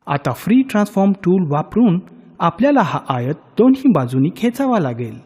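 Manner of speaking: ordinary talk, nothing marked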